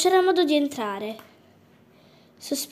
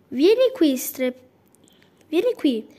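squawking call; 3 semitones higher, 3 dB louder than usual. Acted. Rooster squawking at the fox to come down. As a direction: call it out loud and shrill like a rooster. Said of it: "strepitò".

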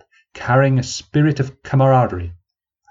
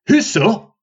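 much higher mocking copy of her voice; old man mocking the young woman, high; savage mimicry; 11 semitones higher, 4 dB louder than usual. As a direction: ape her question cruelly. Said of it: "mimicking his adversary savagely".

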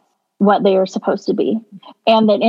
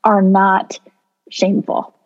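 choked up. Real, not acted. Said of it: "I don't know why I'm getting choked up".

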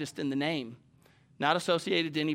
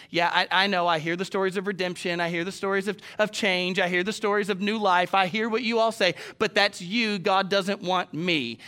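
doubting sinner; 4 semitones higher, 4 dB louder than usual. Retold or imitated.

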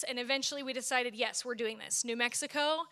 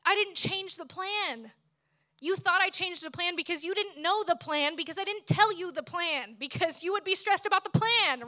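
God's patient voice; 5 semitones higher, 3 dB louder than usual. Retold or imitated. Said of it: "But then God said".

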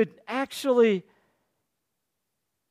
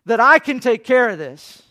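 voicing God; 2 semitones higher, 6 dB louder than usual. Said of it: "and so God says".

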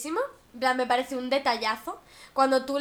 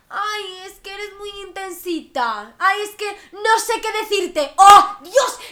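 exaggerated put-upon whine, slow at first; mocking whiny voice; 4 semitones higher, 4 dB louder than usual. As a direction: play the overwhelmed, dramatic type. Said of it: "esa gente que".

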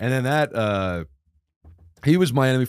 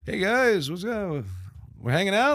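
eager voice of his younger self; 9 semitones higher than usual. Retold or imitated. Voicing himself to friends.

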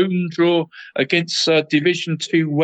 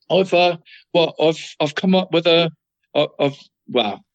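stuttering; 2 semitones higher than usual. Real, not acted. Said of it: "I'm stuttering a bit".

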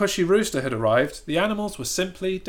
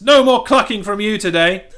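bossy rooster; 6 semitones higher, 8 dB louder than usual. Acted. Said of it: "he said".

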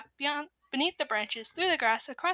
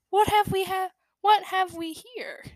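voice like spilling dust; 8 semitones higher, 5 dB louder than usual. A narrator's reading. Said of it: "with a voice like spilling dust".

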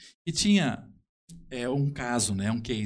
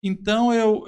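laughing; 8 semitones higher, 8 dB louder, slower than usual. Real, not acted. Laughing as he resumes.

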